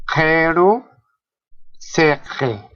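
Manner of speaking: "jeru, seje" with I opened to an E beside the throaty Q. Shown as a demonstration. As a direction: say "jeru, seje" with a clear E vowel and a rasped back consonant. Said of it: "antes o después de la letra Q, suena como E".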